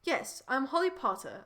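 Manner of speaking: attempted British accent. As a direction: switch into Holly's put-on British accent. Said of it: "in my British accent".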